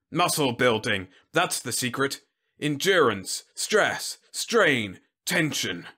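lightly voiced emphatic general; blustering general. General listing his secret to Whitlow, emphatic. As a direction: punch out each item like orders.

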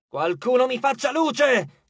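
high, drawn-out demand; exasperated goddess calling out; shout. A narrator's reading. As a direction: cry out for someone to help. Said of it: "gridò Nyx".

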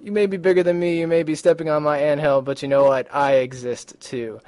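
lightly voiced defiant little ant, standing its ground. Ant to the people stepping on its anthill, mildly defiant. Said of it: "my little ant guy here".

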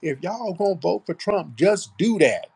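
high sister-girl FBA accent impression; put-on FBA accent. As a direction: mimic her playing up an FBA accent. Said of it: "trying to play up this F B A accent".

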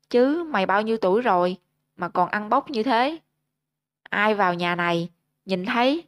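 loud scolding. Acted. Father pointing at Gấu, scolding him for eating by hand, mild angry shout. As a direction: bark at the boy, rising on the openings. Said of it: "trỏ mặt gấu quát lớn".

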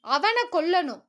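emotional outburst, mildly acted; overwrought demand. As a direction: let the hate spill over on அவனை. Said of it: "உணர்ச்சி வசப்பட்டிருந்தாள்".

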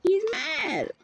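lifted parent echo. Real, not acted. Parent echoing child, raised pitch.

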